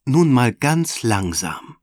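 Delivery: slow, firm teacher order; calm the kids down with authority; stern command. Acted. Kindergartenleiterin bremst die Kinder, streng und langsam. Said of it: "befiehlt Frau Kramer streng".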